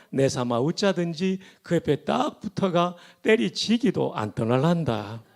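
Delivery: Psalm 23 read in broad Gyeongsang dialect; 경상도 사투리로 구수하게. Shown as a demonstration. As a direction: recite it like a Gyeongsang elder, hearty and folksy. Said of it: "먼저 경상도 버전입니다".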